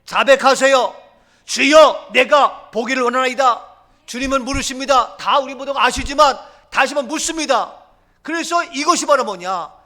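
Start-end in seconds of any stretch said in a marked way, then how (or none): 1.4-3.7 preacher proclaiming the blind man's plea; loud proclamation. Acted. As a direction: declare it at full force to the Lord. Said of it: "말하세요, 고백하세요, 선포하세요".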